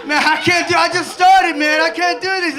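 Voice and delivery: begging off in fear; panicked refusal. Retold or imitated. Scared skier shouting down to his brother, panicked.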